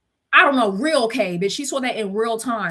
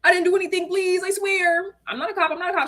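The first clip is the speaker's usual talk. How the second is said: meme voice; 8 semitones higher than usual. Retold or imitated. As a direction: whimper it like the meme. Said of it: "that one meme that's like".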